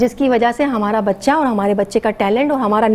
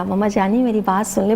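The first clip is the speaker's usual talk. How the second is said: put-on gentle, affectionate child; 6 semitones lower than usual. Mother quoting her child asking her to listen, gently affectionate. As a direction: say it calmly and sweetly, a little low. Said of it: "اس نے آرام سے کہا".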